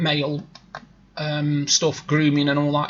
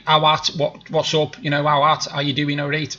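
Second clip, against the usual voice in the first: Stoke greeting; 3 semitones lower than usual. Shown as a demonstration. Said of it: "I'll say".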